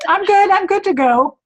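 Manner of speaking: talking with mouth full; words round a bite of food. Real, not acted. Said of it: "nobody wants to see me with my mouth full".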